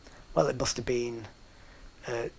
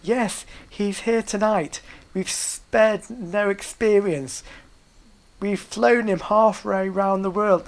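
compere announcement; 5 semitones higher, slower than usual. Retold or imitated. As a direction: present him like a stage host. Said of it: "I say".

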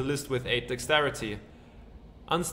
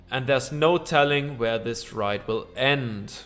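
dramatic narration. Acted. Game narrator sweeping the player back through time, dramatic narration. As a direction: draw them into the spinning vision. Reads the time-travel scene text.

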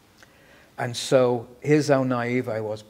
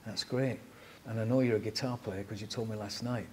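lightly imitated Hull accent; easygoing Hull-accented quote; 6 dB quieter than usual. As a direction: put on a touch of Hull. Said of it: "in a whole accent".

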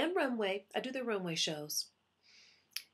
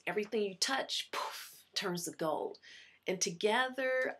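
from the heart. Acted. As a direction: speak it sincerely, from the heart. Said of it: "It'll sound a little something like this".

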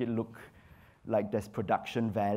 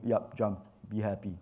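flat unenthusiastic; 4 semitones lower, 3 dB quieter than usual. Retold or imitated. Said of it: "just going".

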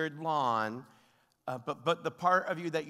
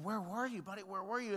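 relieved father; 7 semitones higher, 5 dB quieter than usual. Retold or imitated. Father greeting his crying found son.

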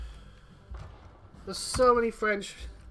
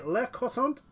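mock French accent; 5 semitones higher than usual. Shown as a demonstration. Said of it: "I don't know why I said it like that".

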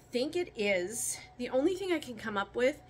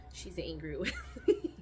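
laughing; 4 semitones lower than usual. Real, not acted. Rabbit squirms, she laughs.

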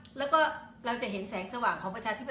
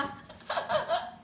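a sudden high-pitched airy laugh; high squeaky laugh. Real, not acted. Vlogger laughing at her own episode title, high squeaky laugh. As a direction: let a squeal of laughter escape. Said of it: "ที่เราหัวเราะนี่ไม่ใช่อะไรหรอกค่ะ".

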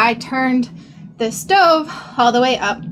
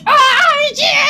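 much higher, jittery exclamation; retold fluster; 12 semitones higher, 4 dB louder than usual. Fumbling with the box lid, flustered and higher. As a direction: blurt it, hands still shaking. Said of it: "and I'm like".

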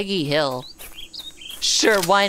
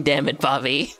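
Hank Hill catchphrase; 6 semitones lower than usual. Retold or imitated. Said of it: "He's always saying".

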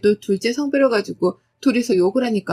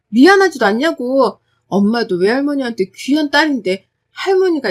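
louder, firm argument; cool defiance; 3 dB louder than usual. Acted. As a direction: lecture dad point by point. Daughter argues back.

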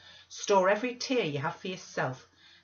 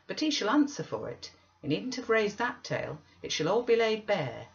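higher, forceful vow of reckoning; indignant; 6 semitones higher, 5 dB louder than usual. Acted. Missus Dean vows the master will answer, indignant. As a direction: declare it loudly, with indignation. Narrator acts indignant reply.

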